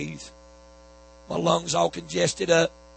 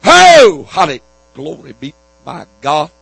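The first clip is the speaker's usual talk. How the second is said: ecstatic shout; 15 dB louder than usual. Real, not acted. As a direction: burst out in praise. Ecstatic outburst after the rebuke.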